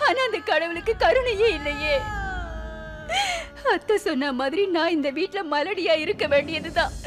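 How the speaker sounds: weeping despair; crying. Acted. Wife weeping to her husband that she can never be a mother, crying. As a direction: sob through each line, hopeless. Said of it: "நீ இப்படி அழாத".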